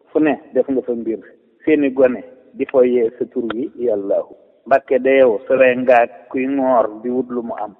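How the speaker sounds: measured verse reading with falling refrain; poem recitation. Real, not acted. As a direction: recite praise verses line by line, dropping on the refrain. Recites own praise poem.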